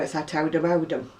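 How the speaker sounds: OWDHAM with a broad "ow" vowel; thick local "ow" in Owdham; old Oldham accent. Shown as a demonstration. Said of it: "my Oldham accent".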